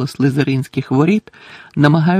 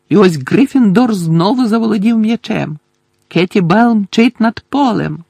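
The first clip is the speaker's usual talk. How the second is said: higher-pitched, urgent play-by-play; commentator shouting over noise; 6 semitones higher, 3 dB louder than usual. Acted. Commentator tries to outshout the singing crowd, calling out. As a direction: try to be heard over the chanting. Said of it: "перекричати натовп".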